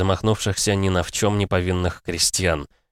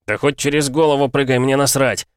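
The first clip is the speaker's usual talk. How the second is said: a much louder, higher furious roar; angry growl; 7 semitones higher, 4 dB louder than usual. A narrator's reading. Enraged hero snarls at the spirit, loud furious growl. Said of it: "гневно прорычал я".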